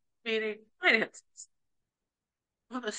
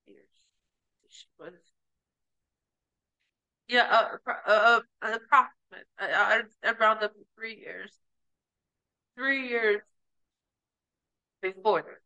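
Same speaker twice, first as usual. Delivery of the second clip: crying; 3 semitones lower than usual. Real, not acted. Breaks down recounting her divorce.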